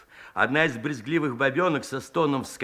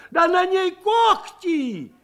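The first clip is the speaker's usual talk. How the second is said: shocked; 13 semitones higher, 4 dB louder, slower than usual. A narrator's reading. Woman discovers claws.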